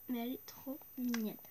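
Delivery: hushed and adoring; fond whisper. Real, not acted. Girl cooing to viewers over her favourite doll, fond whisper.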